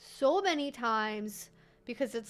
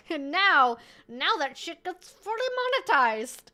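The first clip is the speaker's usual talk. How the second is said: newscaster voice; 4 semitones higher, 7 dB louder than usual. Pretend. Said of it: "I think I'm doing the Robert Evans, like, newscaster voice".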